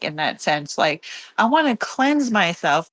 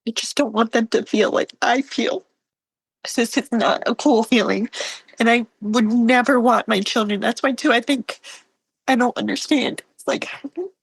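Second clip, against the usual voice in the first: higher voice, real emotion rising; choked up; 4 semitones higher than usual. Real, not acted. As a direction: fight through tears welling up, voice pitched up. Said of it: "like, choking up".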